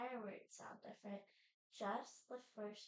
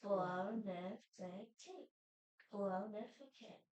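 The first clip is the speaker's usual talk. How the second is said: faster syllables; 4 dB louder than usual. Shown as a demonstration. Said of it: "A little bit faster".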